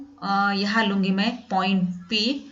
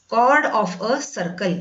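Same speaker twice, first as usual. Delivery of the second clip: chord of a circle read out word by word, very slowly; slow clear dictation; much slower than usual. Shown as a demonstration. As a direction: spell it out slowly for the class. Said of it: "pronunciation कॉर्ड बोलते हैं". (बहुत धीरे, साफ़-साफ़ बोलकर)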